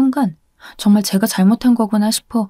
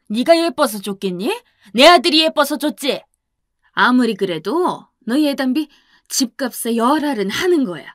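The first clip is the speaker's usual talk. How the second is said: scolding, with 오백을 rising in disbelief; lightly voiced furious mother-in-law, 오백을 stretched and rising; a hint of a resentful scolding mother; indignant mother-in-law. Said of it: "분하다는 듯이 화를 내셨어요".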